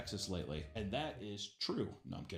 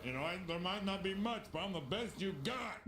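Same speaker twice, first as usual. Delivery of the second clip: imitating a smug guy; 5 semitones higher than usual. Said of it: "some guy with, like, a fan".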